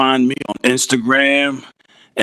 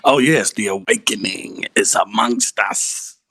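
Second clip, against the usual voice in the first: creepy voice; 4 semitones lower than usual. Acted. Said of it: "say in a creepy voice".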